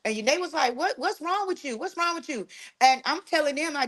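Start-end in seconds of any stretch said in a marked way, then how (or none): 0.8-2.5 alarmed sister. Retold or imitated. Sister and cousin voiced, alarmed.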